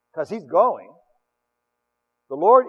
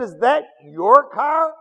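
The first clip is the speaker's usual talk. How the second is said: put-on slow, louder awed child's question; a light kid voice; 6 semitones higher, 7 dB louder, much slower than usual. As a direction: ask like an impressed boy. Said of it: "He said".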